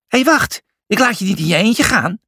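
high-pitched call after a friend. A narrator's reading. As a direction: call out urgently for someone to wait. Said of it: "riep hij". (hoog en dringend naroepen)

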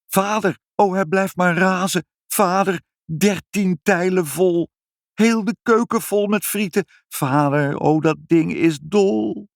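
high, sustained wail of alarm; panicked wailing. A narrator's reading. Mother cries to father amid the fries, panicked wailing. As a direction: wail high, drawing out the last words.

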